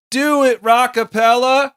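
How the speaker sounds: high-pitched, drawn-out shout; group yell. Acted. Singer leads friends into a TV theme, yelled high. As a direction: yell out the show's opening call. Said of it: "where everyone yells".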